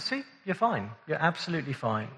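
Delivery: softly voiced reassurance, a little understated; reassuring doctor. Doctor giving a patient the test results, mildly reassuring. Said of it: "reassuring words in the English language".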